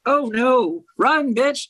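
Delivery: mock panic, warning them to flee; panicked younger self. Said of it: "Me in my twenties going".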